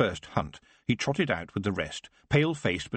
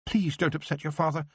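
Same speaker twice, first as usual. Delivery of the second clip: pleading; 6 semitones higher than usual. Acted. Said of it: "his mother pleaded".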